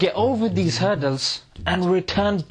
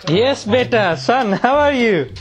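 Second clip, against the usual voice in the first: loud dad voice; 4 semitones higher, 6 dB louder than usual. Acted. Dad answering his son.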